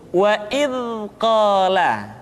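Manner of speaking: "Wa id qala" with "id" ending in a soft continuous buzz; softly flowing dz. Shown as a demonstration. Teacher giving the correct way, "id" softly buzzed. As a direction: let the end of "id" flow gently. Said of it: "suara dialirkan dengan lembut".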